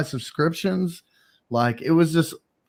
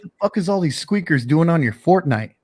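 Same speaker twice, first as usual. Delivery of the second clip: mildly heated mock complaint, pitched up; nasty griping, imitated; 4 semitones higher than usual. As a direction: imitate a friend griping, slightly worked up. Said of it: "he would just be nasty".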